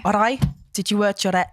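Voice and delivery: Welsh chat-up line; Southern Valleys Welsh. Pretend. Flirting at a pretend bar, broad Welsh accent. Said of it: "doing, like, a really Southern Valley Welsh accent".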